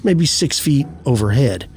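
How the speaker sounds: measured storytelling read, pausing between phrases; unhurried campfire-tale narration; story narration. A narrator's reading. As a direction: read an eerie first-person account evenly and deliberately. Reads out a first-person eerie account.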